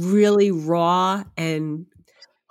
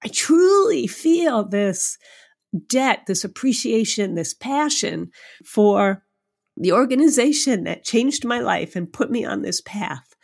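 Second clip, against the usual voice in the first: close to tears; 3 semitones higher than usual. Real, not acted. Guest recalling her winning speech, voice welling with tears. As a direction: let real tears press up into the words. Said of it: "I'm gonna cry right now".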